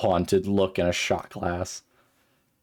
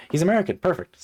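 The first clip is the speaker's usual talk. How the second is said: put-on Southern accent; 11 semitones higher, 4 dB louder, faster than usual. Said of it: "I'll just go with the Southern".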